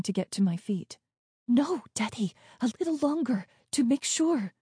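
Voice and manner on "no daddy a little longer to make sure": higher-pitched, restrained urging; anxious caution. A narrator's reading. Geeta holding the child back in hiding, anxious caution. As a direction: plead to wait, without raising volume.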